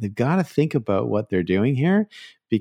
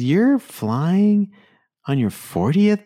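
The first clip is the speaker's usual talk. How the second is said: incredulous tease; 10 semitones higher, 3 dB louder, much slower than usual. Retold or imitated. Agent teasing about birthday.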